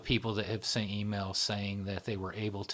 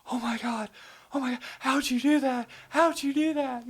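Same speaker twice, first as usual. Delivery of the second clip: much higher, amazed gasping voice; shrieking disbelief, high and a bit louder; wide-eyed astonishment at a miracle; astonished; 5 dB louder than usual. Retold or imitated. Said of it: "and she's like".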